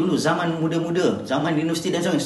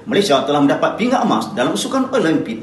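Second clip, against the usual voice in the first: louder, upbeat news read; happy news tone; 5 dB louder than usual. Shown as a demonstration. Teacher demos reading happy news upbeat. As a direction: announce the gold medal gladly. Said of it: "nada dia akan tinggi sebab berita gembira".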